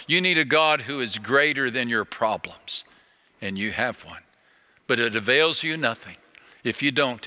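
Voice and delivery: ordinary talk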